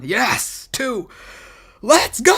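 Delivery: hushed but intense excited yell; whisper yelling. Real, not acted. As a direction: yell under your breath, held back. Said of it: "I had to whisper yell".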